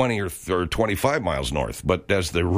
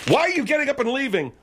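voice cracking; faster than usual. Real, not acted. General's voice cracking as he asks Margaret why she leaves. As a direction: voice cracks up high and rushes the question. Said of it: "When the voice cracks".

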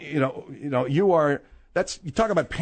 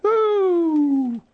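excited whoop; 12 semitones higher, 3 dB louder than usual. Real, not acted. Host whoops after Grumpy Cat.

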